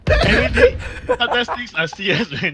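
mock-serious through laughter; laughing. Real, not acted. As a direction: giggle through a fake lecture. Laughing after mom joke.

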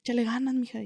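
a hint of a norteño accent; northern Mexican accent. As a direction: lightly put on the northern lilt, like a kindly older inmate. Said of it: "con su acentito, ¿ves?".

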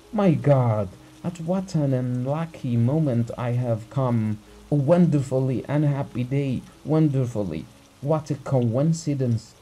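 a terrified husband begging for help; frightened urgency. Acted. Husband begs the doctor to come, frightened and pleading. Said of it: "spoke quickly in a shaking voice".

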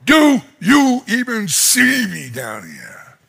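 slow, drawn-out plea; crying out to God. Retold or imitated. Nathaniel under the fig tree, slowly pleading to God. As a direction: imitate a weary appeal to heaven. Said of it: "he's crying out to God".

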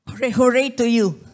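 high, loud cheer. Real, not acted. Cheering the child artists.

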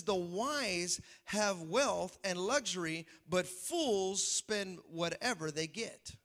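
slow, solemn scripture read; preacher reading Proverbs slowly to the congregation. Acted. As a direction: read the verse slowly and gravely. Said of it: "It says".

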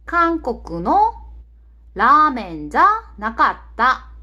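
slow, word-by-word Japanese example; careful teacher's demonstration, drawn out; slow model sentence. Shown as a demonstration. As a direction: model it slowly for learners, phrase by phrase.

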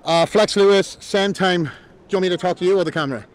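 breathing hard between phrases; winded after jogging. Real, not acted. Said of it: "Sorry, I'm out of breath".

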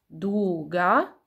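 "Długa" drawn out into two even beats; syllable by syllable. Shown as a demonstration. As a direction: stretch "Długa", one beat per syllable. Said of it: "ilość sylab w nazwie pokrywa się".

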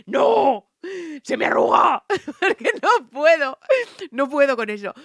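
high, loud, breathless panic; woman panicking over her dress; mock panic. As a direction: gasp it out in a fake panic. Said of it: "En plan de".

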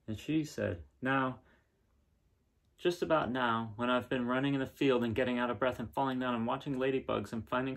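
gentle storybook reading, a bit brighter; reading to children. Acted. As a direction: read the picture book aloud to kids. Reading picture book aloud.

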